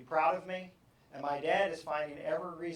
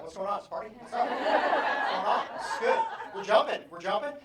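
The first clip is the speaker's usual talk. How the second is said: excited students; 5 semitones higher, 7 dB louder than usual. Retold or imitated.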